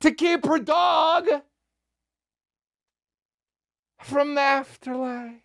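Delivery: high, drawn-out disbelief; slow it down to mock; incredulous punchline. Real, not acted. Comic mocking the dog plot, high and slow.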